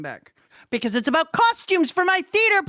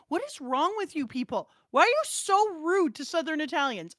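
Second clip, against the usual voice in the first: retold indignation; 5 semitones higher than usual. Teacher's retold indignant scolding.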